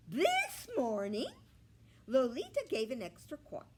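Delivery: very high, loud, fast hen squawk; squawky hen. A narrator's reading. Scruffy hen haggles with the pig, squawking high.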